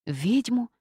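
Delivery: high, rising mock-outraged questions. A narrator's reading. The witch, affronted by talk of marriage, high and outraged. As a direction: bristle at the idea, pitch climbing. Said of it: "возмутилась я".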